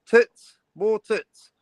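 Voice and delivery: lightly voiced bored friend, rising to a shout on tits; a hint of Jens waving the plot away; mock impatience, half-shouted at the end; impatient Jens. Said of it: "Jens is gonna be sitting there going".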